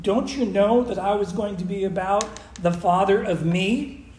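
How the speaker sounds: "me" given emphasis at the very end, rising; weight on the last word. Shown as a demonstration. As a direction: let "me" carry the weight, last. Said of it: "Me's the last word".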